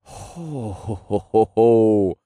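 long exhaled ho-ho-ho of relief; relieved "ho-ho". A narrator's reading. Hero as the hangover pain subsides, sighing in relief. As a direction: let relief roll out in swelling ho's. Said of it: "I sighed in relief as the pain subsided".

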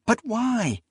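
high-pitched, exasperated question; insistent plea, pitched right up; pleading demand. Acted. Acted quarrel, she demands reason.

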